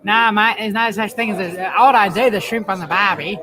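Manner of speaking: lightly hammed-up Aussie accent; Australian accent. Shown as a demonstration. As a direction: play the stock Australian, mate. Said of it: "I can do an Australian accent".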